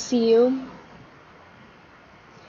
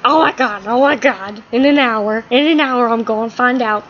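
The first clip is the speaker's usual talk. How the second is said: a touch of giddy, louder chant; excited; 4 dB louder than usual. Acted. Impatient Todd, waiting for his answer, lightly giddy. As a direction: gush with mild mock excitement. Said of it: "Todd gets all excited".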